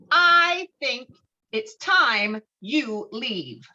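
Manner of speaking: high, loud first words, then very slow; stern librarian. Acted. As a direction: draw out the warning slowly, eerily. Librarian voiced in script reading.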